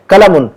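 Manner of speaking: कलमुन as "kalamun" with a front k; wrong plain k. Shown as a demonstration. Teacher imitating Urdu and Hindi readers, plain k. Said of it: "वो कैसे बोलते हैं?".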